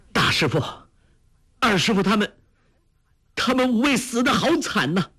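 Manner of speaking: voiced young man crying out in tears; crying out in grief. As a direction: wail over the dead masters. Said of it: "随即眼泪流了下来， 叫道".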